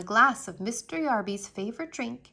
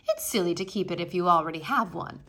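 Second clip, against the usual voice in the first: insulted; 4 semitones lower, 4 dB louder, faster than usual. Acted. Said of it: "She sounded insulted".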